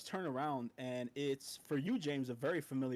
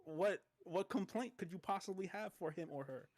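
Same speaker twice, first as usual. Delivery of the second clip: pompous guard; 2 semitones higher, slower than usual. Acted. Pompous guard refusing slowly.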